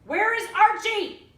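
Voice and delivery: high, loud, slow shout. A narrator's reading. Girl shouting at her granny in the back seat, loud. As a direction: yell the question at her. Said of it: "I shouted at Granny".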